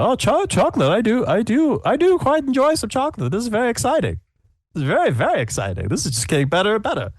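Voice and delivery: put-on high, delighted elderly voice; excited old man. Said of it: "He said".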